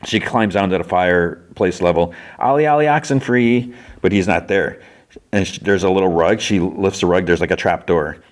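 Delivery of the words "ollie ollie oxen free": high, singsong hide-and-seek call. Retold or imitated. Girl searching for a boy in hiding, singsong call. Calling out the hiding-game cry.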